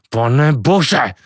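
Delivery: mild exasperated oath; cursing. Acted. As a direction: let it out as an irritated curse. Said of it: "nadával Kvido". (podrážděné zaklení)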